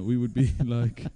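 slow, high mock Swedish drawl; attempted Swedish accent. Swedish drummer musing during a wedding lull, mock Swedish accent. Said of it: "I can't do a Swedish accent".

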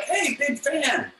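high, slow starstruck "Hey, big fan"; mock fan voice, drawn out and high; gushing fan. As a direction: imitate a dazzled fan. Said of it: "They're like".

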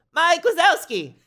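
put-on very high toddler squeal; Boo. Toddler points at a one-eyed duck, high squeaky cry. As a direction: squeak it out like a tiny child. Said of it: "Boo points to, uh, Donald".

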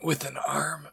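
trailing off into a faint whisper; wounded, weak. Acted. Bleeding Fang answers a worried friend, weak and fading. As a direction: struggle it out as if badly hurt. Injured Fang reports what happened.

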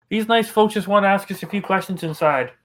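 folksy southern call to the wife; southern accent. Acted. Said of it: "I'm throwing a southern accent".

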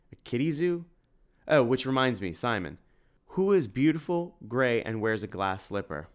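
high squeaky riddle voice; squeaky joking voice. Acted. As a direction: tease with a squeaky voice. Tim jokes in squeaky voice.

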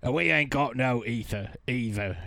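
a light Cockney cartoon henchman voice. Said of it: "that's how he talks normally".

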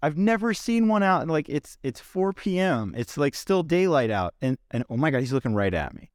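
high, excited disbelief over a wild owl; real thrill, pitch jumping way up; freaking out. Real, not acted. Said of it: "I'm kinda freaking out".

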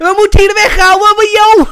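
high shouted street slang; Moroccan Dutch street slang. Retold or imitated. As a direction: yell it like a panicked street kid. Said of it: "a singer impression".

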